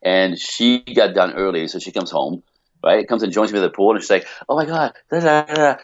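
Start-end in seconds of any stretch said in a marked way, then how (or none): 4.5-5.8 a mildly higher, gushing imitation of the wife; excited chatter. Imitating his wife telling him about her week, mildly excited. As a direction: lightly mimic her bubbly rush of news. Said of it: "she's all excited about her week".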